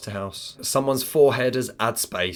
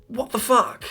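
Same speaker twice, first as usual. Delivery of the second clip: shocked outburst; 12 semitones higher than usual. Real, not acted. Reacting to half-eaten toast.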